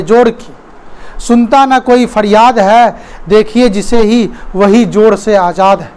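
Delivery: measured verse with stretched key words; poem recitation. Acted. Teacher reciting lines on freedom, verse recitation. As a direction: declaim it in short, paused phrases.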